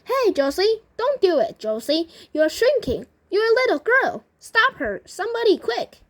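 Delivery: high, loud urgent pleading; acted alarm, climbing very high; panicked shouting. A narrator's reading. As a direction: call for help in a panic. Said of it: "shouted Grandpa Joe".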